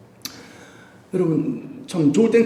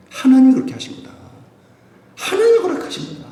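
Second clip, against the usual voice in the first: proclaiming king; 13 semitones higher, 3 dB louder than usual. Retold or imitated. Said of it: "다윗이 뭐라 그래요".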